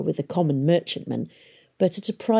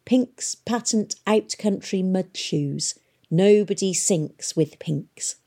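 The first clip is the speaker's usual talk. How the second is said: ad slogan; 2 semitones higher, slower than usual. A narrator's reading. Reading an advert slogan on crate.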